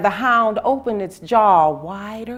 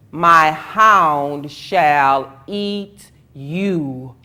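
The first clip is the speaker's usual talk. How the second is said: menacing threat; 3 semitones lower, 6 dB louder, much slower than usual. A narrator's reading. God threatens the people.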